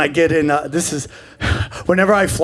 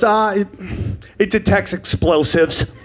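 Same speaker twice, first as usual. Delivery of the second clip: calm. Retold or imitated. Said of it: "in the most calm voice ever".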